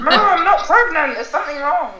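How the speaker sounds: high, loud laughing protest; exasperated laughing retort. Retold or imitated. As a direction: laugh it off but insist. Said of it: "I was like".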